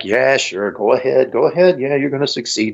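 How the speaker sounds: sarcastic. Retold or imitated. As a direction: egg them on with mildly sarcastic agreement. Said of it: "he's very sarcastic at first".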